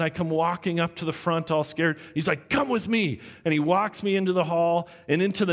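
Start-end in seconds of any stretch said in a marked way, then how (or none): 2.5-3.2 raised-pitch curt command; angry teacher. Retold or imitated. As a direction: imitate a mad teacher ordering a student along. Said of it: "he got really mad".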